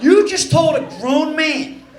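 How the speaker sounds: slow and deliberate, leaning on grown man; drawn-out comic outrage; indignant comeback. Retold or imitated. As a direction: spell it out, mock offended.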